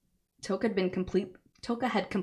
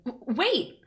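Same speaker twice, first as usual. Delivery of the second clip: high, loud shout after him; yelled call; 9 semitones higher, 5 dB louder than usual. Acted. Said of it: "I yelled towards him".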